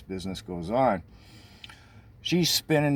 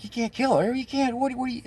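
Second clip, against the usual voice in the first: very high, pleading, about to cry; near tears. Retold or imitated. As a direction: beg in rising panic. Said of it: "Lori's like".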